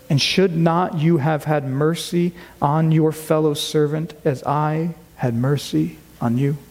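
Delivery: measured, solemn reading of the passage; scripture reading. Acted. Pastor reads the passage to his church, measured and solemn.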